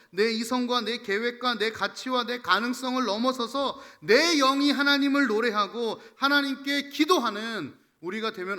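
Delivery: rhythmic sermon build to a loud peak; impassioned preaching. Real, not acted. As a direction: build clause by clause into a proclamation. Preaches at full force. (점점 고조되는 설교조)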